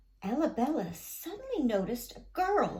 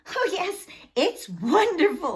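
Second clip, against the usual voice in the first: laughing; 6 semitones higher, 6 dB louder than usual. A narrator's reading. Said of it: "laughed Ella Bella".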